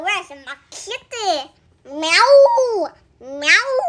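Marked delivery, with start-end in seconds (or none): 1.8-3.8 long, swooping pretend meow; playful cat meowing. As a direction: call out like a cat, starting loud. Playing a cat, looking for kitty.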